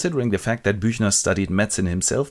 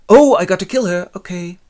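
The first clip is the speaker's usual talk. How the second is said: higher, louder odd voice; eerie inner voice; 10 semitones higher, 8 dB louder than usual. Retold or imitated. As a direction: voice from his head. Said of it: "he hears voices".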